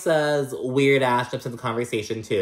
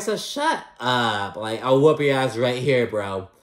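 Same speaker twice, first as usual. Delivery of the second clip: lightly voiced mock threat; mock tough talk. Fed-up viewer mocking Larsa's threat back at her. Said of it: "But I'm like".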